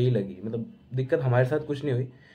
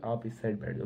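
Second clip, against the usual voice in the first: softer, coaxing retelling of the lady; imitated sweet request; 8 dB quieter than usual. Lady in his seat now asking nicely, softer and sweet. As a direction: gently sweet-talk him into moving. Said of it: "फिर उसने प्यार से बोला".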